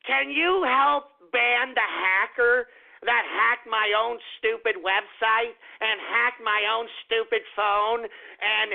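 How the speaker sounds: slow, drawn-out whiny plea for help; mocking Leslie Jones. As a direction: play her as a helpless victim begging, slowly. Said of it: "You're gonna call Jack and say".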